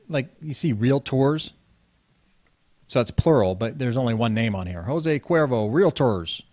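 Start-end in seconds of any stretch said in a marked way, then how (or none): 4.8-6.4 mock Latino accent. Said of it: "without having a, uh, Hispanic accent".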